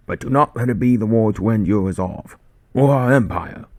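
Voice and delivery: loud, high sergeant's call to the troops; sergeant's rallying cry. Acted. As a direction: rouse the men, raise your voice high. Sergeant addresses men in trench.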